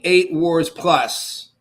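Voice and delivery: EIGHT WARS PLUS slow and emphatic; all caps. Retold or imitated. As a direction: punch out "eight wars plus" like capital letters. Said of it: "all caps".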